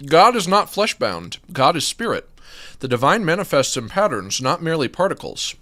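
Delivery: reading with a mouth full of food. Real, not acted. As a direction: talk through a mouthful. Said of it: "talk with my mouth full".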